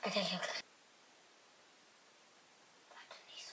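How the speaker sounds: hushed whisper. Real, not acted. Pranksters hiding from their friend, whispering. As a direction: keep it down so nobody hears.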